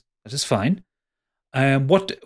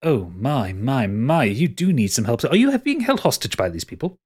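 concerned concierge. Acted. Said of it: "the concierge looks at you and goes".

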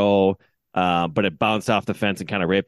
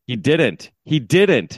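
insistent denial, rising on the repeat; mildly heated re-enactment; yelling at umpire; 2 semitones higher, much slower than usual. Retold or imitated. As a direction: contradict the umpire, pushing harder the second time. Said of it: "still yelling at this umpire".

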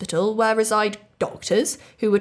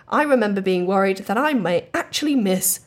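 whisper. Acted. Confessing a silly worry.

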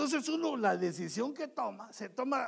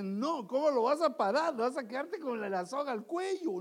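raised, emphatic mock protest; objecting inner argument; 5 semitones higher, 4 dB louder than usual. Reason warns a husband against debt, in emphatic protest. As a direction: argue back in a higher, louder voice. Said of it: "el argumento te dice".

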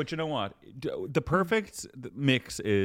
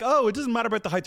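mocking herself; 10 semitones higher, 4 dB louder, faster than usual. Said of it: "I'm like".

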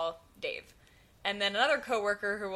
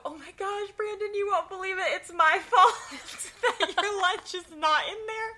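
much higher, breaking into laughter; laughing confession; 9 semitones higher, 5 dB louder than usual. Retold or imitated. Narrator confessing to Brandon, laughing. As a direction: confess through giggles. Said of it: "I go".

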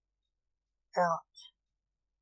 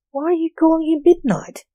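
bubbly forgetful goldfish voice; 9 semitones higher, 4 dB louder than usual. A narrator's reading. Goldfish character questions the magician.

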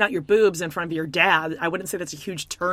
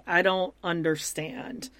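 slow, softer imitation of bewilderment; mock dejection; 3 semitones lower, 6 dB quieter than usual. Host imitates a fiancé handed back the ring, mildly dejected. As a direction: let it sink slowly, quietly crushed. Retelling Kobe's crushed reply to ring.

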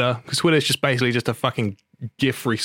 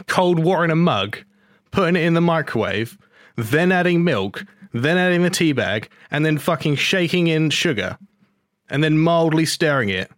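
incredulous rant; 4 semitones higher than usual. Real, not acted. Ranting listing tea steps.

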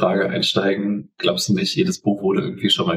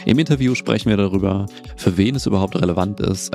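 bad mic sounding like a robot; robotic, badly compressed mic sound. Real, not acted. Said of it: "es hört sich an wie ein Roboter". (Roboterstimme durch falsches Mikrofon)

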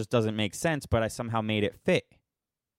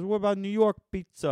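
high-pitched ad-character question; mock a New Yorker in a commercial; New York guy; 9 semitones higher than usual. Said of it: "the New York guy goes".

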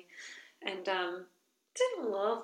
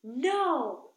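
high, stubborn little no; mock kid defiance; child's refusal; 6 semitones higher, 3 dB louder than usual. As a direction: pout like a toddler. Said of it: "the child was like".

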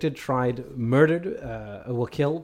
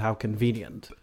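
sly sarcasm; 5 semitones lower, 7 dB quieter than usual. Retold or imitated. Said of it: "stroked our beards and said".

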